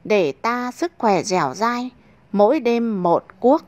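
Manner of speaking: lilting verse read with a cheeky swing; poem recitation. Acted. Narrator reciting a bawdy verse to listeners, lilting and cheeky. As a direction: recite it like a playful folk rhyme.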